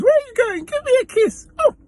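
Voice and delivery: very high, squeaky mock-drunk call; hammed-up drunken falsetto plea; drunk passenger. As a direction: imitate a tipsy woman calling out in falsetto. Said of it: "I know you're drunk".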